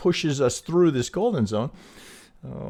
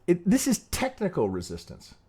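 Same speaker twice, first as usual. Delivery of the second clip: "technical resistance" pushed higher, each word leaned on; emphatic point; 6 semitones higher than usual. Shown as a demonstration. Trader stressing to viewers that the ceiling is just "technical resistance", emphatic. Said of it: "let me emphasize this".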